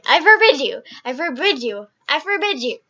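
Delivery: very loud, mocking command; hammed-up forceful shouting; mock yelling. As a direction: parody a blustering ban, repeated. Listener mocks the repeated forbidding line.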